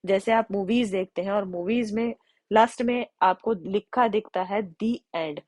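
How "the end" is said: "the end" read slowly with "the" as दी. Shown as a demonstration. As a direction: say "the end" slowly like a movie title card. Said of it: "हम इसको the end क्यों pronounce करते हैं". (धीमे "the end", दी के साथ)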